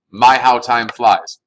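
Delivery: slow, drawn-out musing; wistful aside. Real, not acted. Teacher muses to students how fast the term went. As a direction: savour it like a sigh at the calendar. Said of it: "teacher muses at the end of the lesson".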